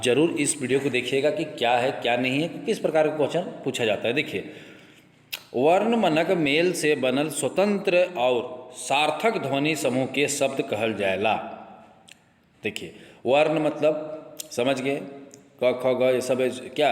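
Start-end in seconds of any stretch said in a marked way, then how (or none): 5.6-11.3 slow, even reading of a textbook definition; slow dictation. Shown as a demonstration. Teacher reading a definition to students, slowly. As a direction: read it out slowly so students can follow. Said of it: "आराम से धीरे धीरे बोल रहे हो".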